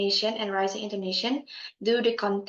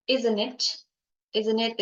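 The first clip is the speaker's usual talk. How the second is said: "isn't it" falling at the end; falling tag intonation. Shown as a demonstration. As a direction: let the tag "isn't it" drop. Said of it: "is fall".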